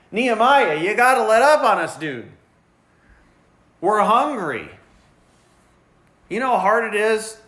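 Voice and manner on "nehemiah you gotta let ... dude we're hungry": a hint of whiny complaining workers, higher. Workers griping to Nehemiah about hunger, lightly whiny. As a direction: mildly whine at Nehemiah like a tired worker. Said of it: "They're starting to complain".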